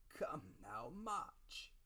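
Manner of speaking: a hint of cruel cold beggar. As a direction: bark it coldly. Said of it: "a voice so cruel and cold and ugly".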